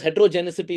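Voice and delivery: heterogeneity said with a false C, "hetero-genicity"; imitated mispronunciation. Lecturer mimics students' study talk, mispronouncing heterogeneity as "hetero-genicity". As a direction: copy the error, ending heterogeneity in "-icity". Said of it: "Where is the C in this?".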